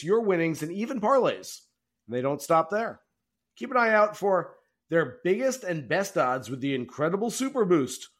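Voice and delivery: brisk, upbeat podcast ad read; sponsor ad read. Acted. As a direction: sell the sponsor like a host-read spot.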